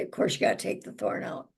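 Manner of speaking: talking through hiccups; words broken by hiccups. Real, not acted. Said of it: "I got the hiccups now".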